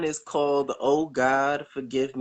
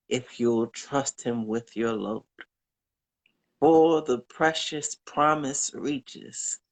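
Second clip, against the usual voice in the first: poem recital. Acted. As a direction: read it like a comforting hymn.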